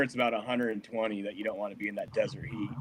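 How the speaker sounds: soft unvoiced whisper; whispered aside. Real, not acted. Telling podcast hosts about desert summers, whispered. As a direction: drop to a whisper for the heat.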